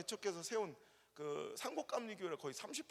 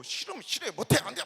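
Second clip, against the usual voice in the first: blunt Gyeongsang refusal; 3 semitones higher, 9 dB louder than usual. Retold or imitated. Preacher mimicking a Gyeongsang refusal, loud and blunt. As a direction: snap it out like a Gyeongsang local. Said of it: "경상도는 면전에 대고".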